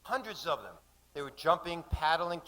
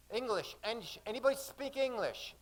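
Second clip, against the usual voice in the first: calling out; 9 semitones higher than usual. Acted. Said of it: "His voice was like a canoe magnet".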